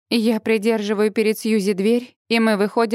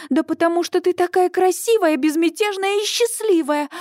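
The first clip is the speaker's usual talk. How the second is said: much higher, heated yell back; 8 semitones higher than usual. A narrator's reading. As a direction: shout back at Suzie. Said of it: "ору я в ответ". (кричит в ответ, высоко)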